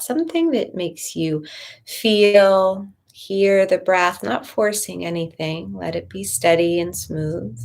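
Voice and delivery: calm, measured meditation voice with long pauses; guided meditation. Real, not acted. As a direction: gently guide listeners inward, leaving room to breathe.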